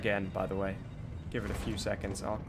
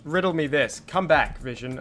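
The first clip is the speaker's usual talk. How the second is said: frustrated; 4 semitones higher, 7 dB louder than usual. Real, not acted. Pleading with broken screen.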